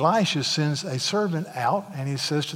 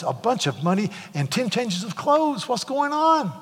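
growing anger; 3 semitones higher than usual. Retold or imitated. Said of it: "he gets more and more angry".

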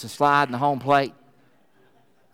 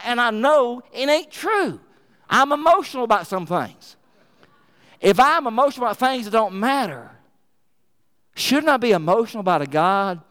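rising fervour; 5 semitones higher than usual. Real, not acted. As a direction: pitch climbing higher with passion. Preacher building emotional appeal.

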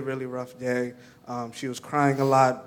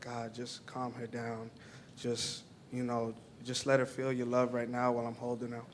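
silent prayer; 7 dB quieter than usual. Retold or imitated. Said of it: "like, in my mind".

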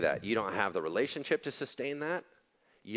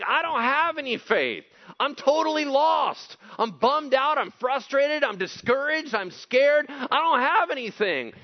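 high, loud cry of despair; loud anguished pleading; desperate cry; 11 dB louder than usual. Acted. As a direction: plead with God as if lost. Voicing desperate disciples.

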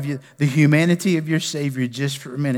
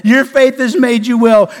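your faith has made you well thrown out loud and full; preached Jesus quote; 9 semitones higher, 11 dB louder than usual. Acted. Pastor voicing Jesus to the church, loud preached proclamation. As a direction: proclaim it as the climax of the sermon. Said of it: "just like I said".

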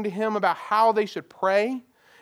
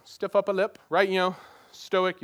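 mock British accent. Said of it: "you like my British accent?".

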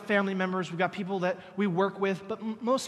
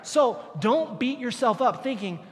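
louder, urging call; shouted exhortation; 5 semitones higher, 4 dB louder than usual. Acted. Pastor urging listeners not to feel guilty, raised voice. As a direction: lift the voice to the room.

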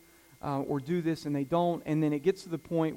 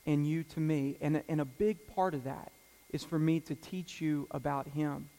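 gentle father. Retold or imitated. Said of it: "I always say the same thing to them".

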